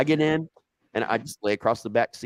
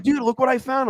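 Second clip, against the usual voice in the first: higher, eager mock discovery; mock excitement; 5 dB louder than usual. Voicing Mike finding the shotgun, high and eager. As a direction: show off the find.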